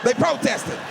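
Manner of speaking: high panicked yelling to the police; frantic high yell about protesters; panicked shout. Retold or imitated.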